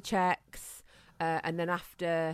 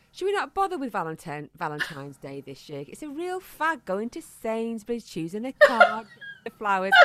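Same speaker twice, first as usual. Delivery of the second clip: imitating husband; 4 semitones higher, 4 dB louder than usual. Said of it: "These are his words".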